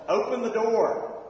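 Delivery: loud, slow shouted command; yelled. Retold or imitated. Man behind the door yelling to the teen. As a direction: bellow it through the closed door. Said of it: "the guy yelled".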